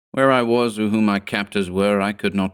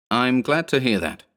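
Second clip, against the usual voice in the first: sarcastic; 5 semitones higher than usual. Acted. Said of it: "I replied sarcastically".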